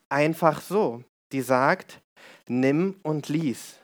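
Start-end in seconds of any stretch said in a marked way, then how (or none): 2.5-3.8 slow, solemn divine voice, each word set apart; voice of God. Acted. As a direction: speak it slowly like a calm voice from above. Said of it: "hört er eine Stimme". (langsam und feierlich, wie Gottes Stimme)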